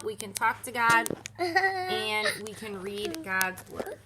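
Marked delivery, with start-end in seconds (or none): 1.4-4.0 each word stretched slowly; slow, drawn out. Shown as a demonstration. Slowly reading the card to the kids. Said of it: "These are what we can do".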